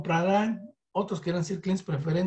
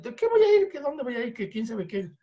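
mock friend's scoff; 6 semitones higher than usual. Friend's broke reply acted out.

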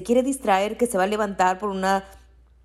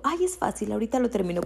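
higher, upbeat pep talk to herself; light, higher self-encouragement; upbeat self-affirmation; 3 semitones higher, faster than usual. Retold or imitated. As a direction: cheer yourself on. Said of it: "me hago afirmaciones y digo".

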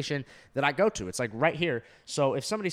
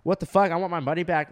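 cussing out; 3 semitones higher, 3 dB louder than usual. Retold or imitated. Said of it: "cussing this lady out".

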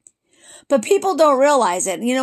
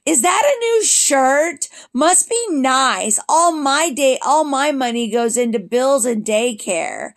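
mock a parent's pointed remarks; imitated snide mom. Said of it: "These are comments that I got".

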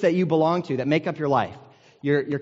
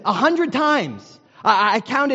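slow, drawn-out angry shout, higher and louder; retold shout; 7 semitones higher, 4 dB louder, slower than usual. Angry churchgoer shouting at the preacher mid-sermon, slow loud shout. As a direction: bark the count back at the preacher. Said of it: "he shouts out".

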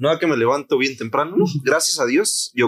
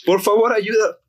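pleading foreigner; 8 semitones higher than usual. Retold or imitated. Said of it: "me dice".

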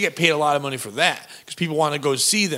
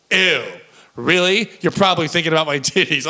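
imitated Long Island accent; New Jersey accent. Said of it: "she talked in this New Jersey, Long Island accent".

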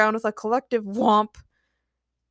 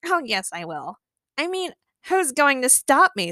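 gloating villain; 5 semitones higher than usual. Acted.

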